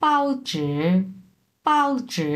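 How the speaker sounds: 报纸 said high, falling tone on 报 then dipping tone on 纸; Mandarin tones. Shown as a demonstration. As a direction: pitch up for 报纸, fourth then third tone. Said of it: "প্রথমটা চার number tone".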